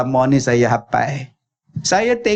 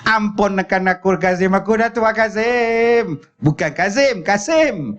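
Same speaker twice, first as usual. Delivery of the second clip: put-on higher pleading old mother breaking into a laugh; 7 semitones higher than usual. Storyteller voicing the mother and laughing at his own slip. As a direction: whine like the old mother, then laugh at the name. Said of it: "Mak dia".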